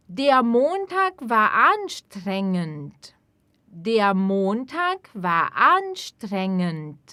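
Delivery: very slow, clear and even; slow model sentence. Shown as a demonstration. Teacher modelling sentence slowly for repetition. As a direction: spell it out slowly for learners. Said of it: "teacher models sentence".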